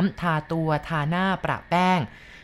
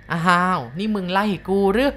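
usual speaking voice

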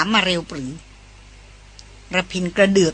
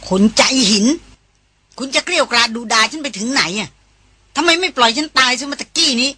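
pitched up, near tears, voice rising; shrill tearful outburst; 4 semitones higher than usual. Acted. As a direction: cry it out, hurt and furious. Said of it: "แผดเสียงแหลมก้องขึ้น".

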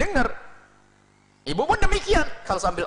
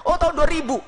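higher, indignant donor voice; mock protesting donor; 9 semitones higher, 4 dB louder than usual. Preacher imitates a donor insisting he already gave, higher. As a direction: act the offended giver.

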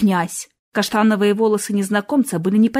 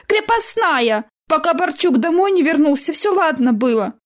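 put-on indignant serf girl; 7 semitones higher than usual. Girl explaining, still indignant.

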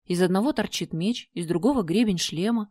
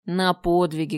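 thoughtful; slower than usual. Acted. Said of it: "задумчиво произнесло чудовище".

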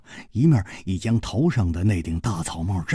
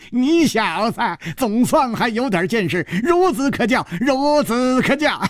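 high cackle into crowing praise; cackle, then patronise in a high voice; gloating old dwarf; 11 semitones higher than usual. A narrator's reading. Dwarf approving of Hu Tiehua, gloating.

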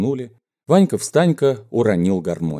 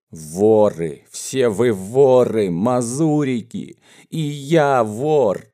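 slow, drawn-out defiant jeer; cocky taunting shout; much slower than usual. Acted. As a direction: call it out provocatively, stretching the words. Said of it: "задирчиво выкрикивал". (задиристый выкрик с растяжкой)

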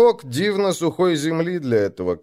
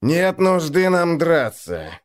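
tired; 4 semitones higher, slower than usual. Acted. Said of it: "устало сказал Бурый".

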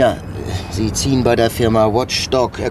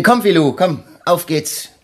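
coaxing a dog along, higher and slower; calling the dog; 7 semitones higher than usual. Acted. Inspector calls his dog to follow him, coaxing. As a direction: call the dog to come.

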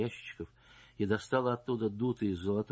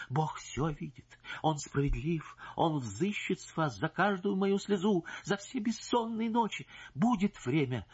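solemn threat; 8 semitones higher than usual. Acted. Wife threatens divine justice.

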